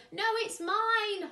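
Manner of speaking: high, loud counterclaim; holler. A narrator's reading. Bruce hollers back at Cyril, high and loud. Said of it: "hollered Bruce".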